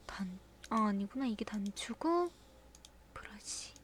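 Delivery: whispered to herself, slow; absorbed half-whisper; whispered muttering. Real, not acted. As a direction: murmur while rummaging. Muttering while searching items.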